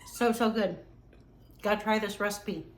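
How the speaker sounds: talking with a mouth full of bread; words around a bite of food. Real, not acted. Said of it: "excuse me for talking with my mouth full".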